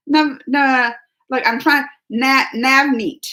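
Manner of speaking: sounding out Navneet slowly, syllable by syllable; stumbling attempt at a hard name; careful name attempt. Shown as a demonstration. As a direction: break "Navneet" into na-, nav-neet, slow and unsure. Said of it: "That's a hard one to say".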